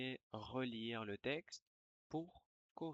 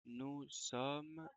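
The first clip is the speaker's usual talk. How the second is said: dictation reread. Shown as a demonstration. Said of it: "Je vais relire la dictée".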